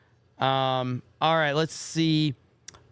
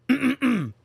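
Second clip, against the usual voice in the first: a lightly voiced, slightly higher woo; a throat-cleared, tame attempt at the wrestler's woo; Ric Flair woo; 8 semitones higher than usual. Streamer retries the Ric Flair woo, only a hint of it. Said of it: "I'm gonna try to do a real Ric Flair".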